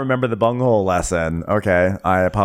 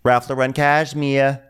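announcing proudly; 5 semitones higher, slower than usual. Retold or imitated. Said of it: "she's going".

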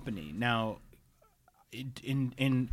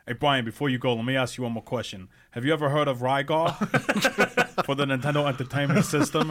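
put-on South Jersey accent; 5 dB louder than usual. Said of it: "very thick, uh, Southern New Jersey accent".

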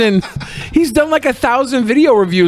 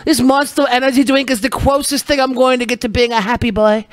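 put-on sad kid voice, slightly higher; mocking the kid; 4 semitones higher than usual. Mocking the boy reviewer in a put-on kid voice. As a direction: mimic a gloomy boy with his drink. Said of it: "this kid's obviously over here like".

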